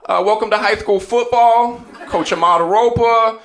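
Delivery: lightly voiced pompous coach intro; a hint of a self-important coach greeting the team; imitating the coach. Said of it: "judging from statements like".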